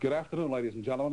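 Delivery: breathless, rushing into the mic; out of breath. Real, not acted. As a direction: speak while still catching your breath. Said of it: "You'll excuse the fact that I'm out of breath".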